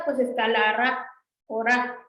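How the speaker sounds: "ra" with the tongue curled back; "ra" said with a retroflex tap; retroflex ra demo. Shown as a demonstration. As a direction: show the "ra" sound. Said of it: "Es como nuestra ra".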